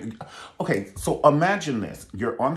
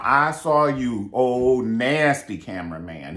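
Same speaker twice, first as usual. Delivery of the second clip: calling out; 4 dB louder, slower than usual. Pretend. Calling out the cameraman.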